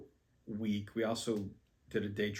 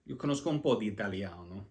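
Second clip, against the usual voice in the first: Italian phrase; faster than usual. Shown as a demonstration. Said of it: "I can say that".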